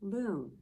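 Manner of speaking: "Balloon" in two distinct beats; split into syllables. Shown as a demonstration. Teacher showing children how to count syllables, "Balloon" broken in two. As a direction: say "Balloon" as ba, pause, loon. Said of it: "That was a two syllable".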